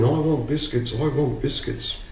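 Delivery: put-on child screaming. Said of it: "The little boy is screaming".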